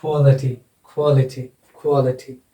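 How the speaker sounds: "क्वालिटी" stressed on its first syllable; stress demonstration. Shown as a demonstration. Teacher modelling word stress for students, first syllable stressed in "क्वालिटी". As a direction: lean on the opening "क्वा" of "क्वालिटी". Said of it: "क्या उच्चारित हो गया ये?".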